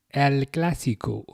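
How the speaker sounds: El Clásico rolled out in a slow Mexican Spanish accent; slipping into a Mexican accent on the name. Real, not acted. Streamer naming the next match, in a Mexican accent. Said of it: "I said that with a Mexican accent".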